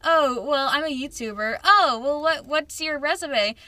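acted dialogue. Acts out both sides of a job chat.

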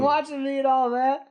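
lightly acted freak-out; retold panic. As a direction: report it like a scared child. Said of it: "freaking out. He's, like, scared".

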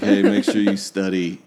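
bored, flat advice; monotone voice. Retold or imitated. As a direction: deliver it like you don't care. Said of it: "in that monotone voice".

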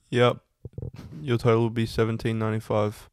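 flat, lifeless cashier voice; soulless worker voice. Retold or imitated. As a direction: recite it like a drained fast food worker. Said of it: "such an accurate depiction".

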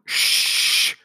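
a breathy shush; hush. A narrator's reading. Tim hushing Jane during the speech, whispered. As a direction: hush her quickly.

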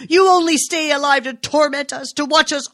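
high, loud tearful outcry; a mother near hysteria accusing her son. A narrator's reading. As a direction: close to breaking down, voice pitched high. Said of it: "She was in tears, close to hysteria".

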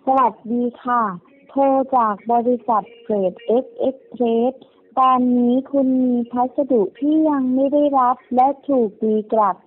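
customer service voice. Acted. Recorded scam call message.

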